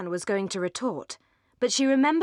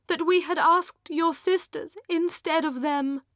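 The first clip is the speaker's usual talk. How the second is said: higher, sweetly gushing lady; affectionate; 9 semitones higher, 5 dB louder than usual. A narrator's reading. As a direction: lay the sweetness on thick. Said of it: "in her affectionate way".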